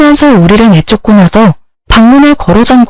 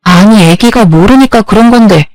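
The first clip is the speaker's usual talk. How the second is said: angry confrontation. Acted. Wife protesting to husband over scolded child, indignant. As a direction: demand why he scolds the child.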